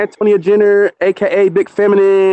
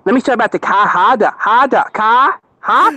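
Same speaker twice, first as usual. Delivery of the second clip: hammed-up Boston accent, dropping the r in Ka; teasing Boston accent, chopped into short bursts; playful Boston accent, goofing around; mock Boston accent; slower than usual. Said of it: "trying to talk like he's from".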